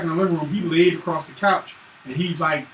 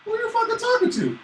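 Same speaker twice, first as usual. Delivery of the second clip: stern dad. Retold or imitated.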